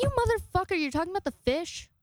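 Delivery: incredulous outburst. Retold or imitated. To her roommate who announced the fish died, high incredulous outburst. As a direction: pitch jumps way up in disbelief.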